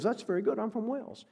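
high, lightly imitated British accent. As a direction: put on a Welshman's British accent. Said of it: "with an accent".

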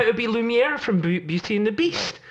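exasperated retort. Retold or imitated. Dialect coach retelling his comeback to a fan, mock-indignant and high. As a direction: snap back high like you can't believe the question. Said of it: "I'm like".

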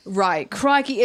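Australian catchphrase accent demo. Shown as a demonstration. Guest showing co-hosts the trick, Australian accent. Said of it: "I'll just go right into Australian".

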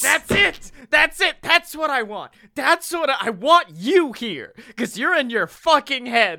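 high, urgent cries of approval; excited coach. Retold or imitated. Coach urging student out of their head, imitated high-pitched excitement. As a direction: imitate a teacher's impassioned breakthrough outburst. Retold coach exclaiming at breakthrough.

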